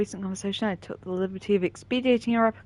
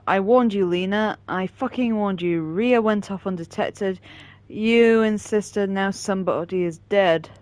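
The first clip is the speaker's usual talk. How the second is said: slow, loud furious message; angry; 7 dB louder, slower than usual. Acted. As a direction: spit out each word slowly. Reading angry message aloud.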